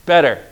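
"better" set apart and emphasized; preacher accenting "better"; stress on BETTER. Shown as a demonstration. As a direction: lean on the word "better". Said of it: "let's accent the word better".

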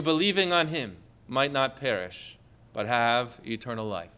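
a hint of a deep, solemn lion. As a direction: answer as a gentle, deep-voiced lion. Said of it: "he answers you with a deep voice".

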